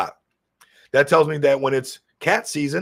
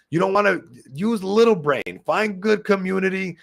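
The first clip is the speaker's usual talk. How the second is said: a hint of caveman, higher and blunt; caveman talk; 6 semitones higher than usual. Shown as a demonstration. Streamer telling viewers how to pick meme coins, light caveman voice. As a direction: say it like a simple caveman. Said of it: "You almost wanna talk like a caveman".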